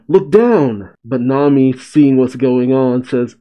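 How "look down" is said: mild mock yell; a half-hearted shout of warning; retold yell. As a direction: call it out lightly, as if warning friends. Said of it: "Bonnie yells to them".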